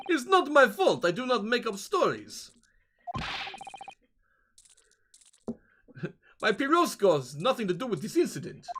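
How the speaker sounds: defensive sailor. Acted. Sailor defends his snake to gentleman, defensive. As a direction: lightly protest innocence. Voicing game characters.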